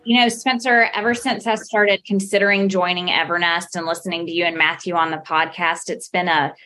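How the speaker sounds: mock-sincere gratitude; deadpan sarcastic thanks, as if truly honoured. Real, not acted. Guest thanks host for a supposed lifelong dream, sarcastic. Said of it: "if you can't hear her sarcasm, she's definitely being sarcastic".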